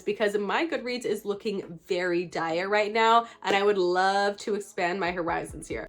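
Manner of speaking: stuffy nasal voice from a cold; nasal sick voice. Real, not acted. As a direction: talk through a blocked nose. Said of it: "sorry for my nasally voice".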